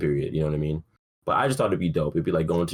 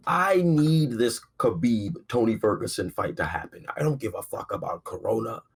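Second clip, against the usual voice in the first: overdramatic higher pleading rant; dramatic; 4 semitones higher than usual. Real, not acted. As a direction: ham up the selfish demand. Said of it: "I'm being dramatic".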